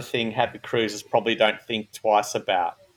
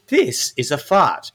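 Google voice; 3 semitones higher, slower than usual. Retold or imitated. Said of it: "Google goes".

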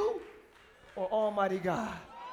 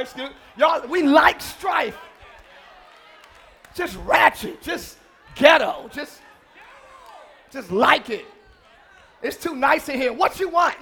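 preaching at full force. Acted. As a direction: preach it hard to the room. Preaching to congregation.

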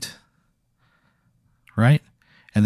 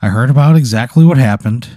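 a friendly creature voice, lightly played; lightly voiced snooze monster; 3 semitones higher, 5 dB louder than usual. Snooze monster consoling the player, lightly voiced.

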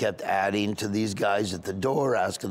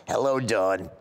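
lightly voiced old lady caller; a hint of Boca old lady; little old lady. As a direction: greet the radio host as an elderly regular. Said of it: "Little Old Ladies from Boca".

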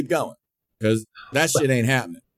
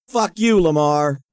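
shouted insult; 3 semitones higher, 4 dB louder, slower than usual. Retold or imitated. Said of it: "And I said".

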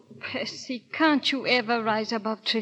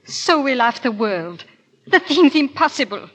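scornful protest; 3 semitones higher, 9 dB louder than usual. Acted. Scornful refusal.

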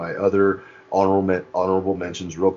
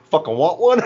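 high, loud laughing shout; hammed-up Bubbles shout; mock shout; 10 semitones higher, 6 dB louder than usual. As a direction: yell it like a tough guy mid-laugh. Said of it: "you just hear him go".

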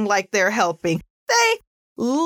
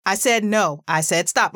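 stern, falling parental command; firm with oomph; 3 semitones lower than usual. Shown as a demonstration. Parent setting a real boundary for a child, firm and stern. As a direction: put some oomph behind it, no yelling. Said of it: "it should have some kinda oomph behind it".

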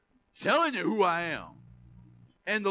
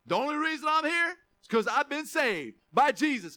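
passionate declaration; 4 semitones higher than usual. Shown as a demonstration. Preacher showing graduates how to say it, fired up. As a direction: raise it up and proclaim it with fire. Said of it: "You say it like that".

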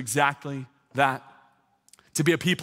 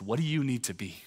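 quiet question; 3 semitones lower, 5 dB quieter than usual. Retold or imitated. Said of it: "this question that she hates".

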